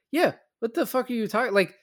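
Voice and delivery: high, loud incredulous rant; exasperated disbelief. Real, not acted. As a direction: protest loudly in high-pitched disbelief. Mock exasperation at character's line.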